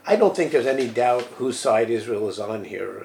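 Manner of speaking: ordinary delivery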